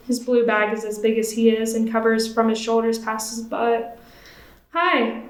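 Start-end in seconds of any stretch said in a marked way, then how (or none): 4.7-5.2 bright smiling greeting, pitched up. Acted. Woman greeting the boy at the park, smiling. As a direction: greet him with a wide smile. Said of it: "I smile".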